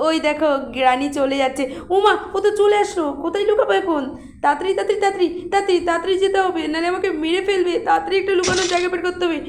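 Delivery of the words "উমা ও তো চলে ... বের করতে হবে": high, hurried panic; panicked. Real, not acted. Gamer hiding from granny, high-pitched panic. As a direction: scramble to hide in a rush. Granny coming, rushing to hide.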